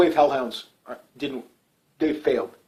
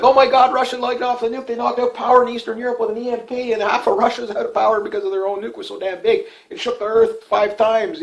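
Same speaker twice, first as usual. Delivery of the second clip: much higher, hammed-up alarmed newscaster; panicky reporter voice; 8 semitones higher than usual. Vlogger mimicking alarmed reaction to a Russian nuke, high hammed-up voice. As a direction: squeal the news of the nuke in mock panic. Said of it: "do the voice".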